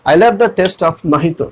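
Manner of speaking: slow example, mojito as "mo-hee-to"; model pronunciation. Shown as a demonstration. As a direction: slowly demonstrate mojito with an h. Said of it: "लेकिन पढ़ेंगे मोहितो". (धीरे से, mojito को मोहितो बोलकर)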